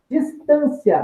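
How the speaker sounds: "distância" stressed on TÂN, final "cia" in one glide; teacher saying "distância" with the "ia" as one syllable; word read as an example. Shown as a demonstration. Teacher to students, showing "distância" with the "ia" as one syllable. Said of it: "Esse I A eu falo num só impulso".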